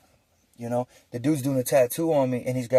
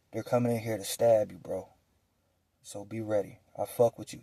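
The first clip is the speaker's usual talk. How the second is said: lower, softer secret warning; hushed warning; 4 semitones lower, 7 dB quieter than usual. Retold or imitated. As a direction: keep it down so nobody hears. Secret warning, nobody listening.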